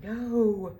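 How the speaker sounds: mock firm refusal; flat refusal. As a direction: snap a firm no back. Refusing the cops.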